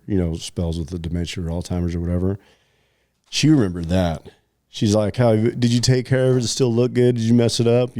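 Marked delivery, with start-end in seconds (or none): 5.2-8.0 lightly voiced mom. Mom asking about tattoo, voiced.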